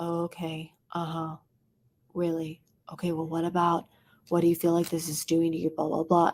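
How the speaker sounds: awkward, unenthusiastic, flat deadpan monotone. Showing how sounding overly unenthusiastic comes across: flat, awkward monotone. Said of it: "you're like super monotone and like awkward".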